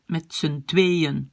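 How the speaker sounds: "tweeën" in two syllables, slowly; slow phrase, break "tweeën" into twee-en; split syllables. Shown as a demonstration. Teacher shows where to cut, "tweeën" slowly split as twee-en. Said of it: "on coupe là".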